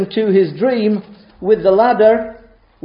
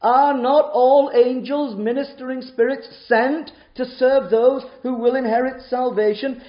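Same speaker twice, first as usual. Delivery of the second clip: scripture reading; 5 semitones higher than usual. Shown as a demonstration. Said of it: "I'm quoting it verbatim".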